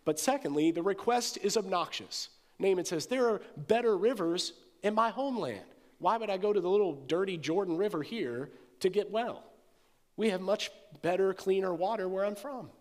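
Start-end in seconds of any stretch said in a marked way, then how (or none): 3.0-12.7 indignant boast. Acted. Naaman scorns the Jordan.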